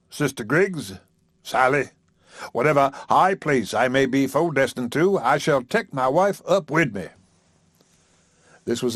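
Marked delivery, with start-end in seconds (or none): 0.1-7.1 lightly voiced grand old preacher; a hint of lordly generosity; magnanimous preacher. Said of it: "waved his hand magnanimously".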